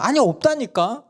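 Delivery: 훨씬 높고 크게 못박는 엄마; 단호하게 못박듯. Retold or imitated. 엄마가 맞섬. (막내에게 맞서는 아내 말투)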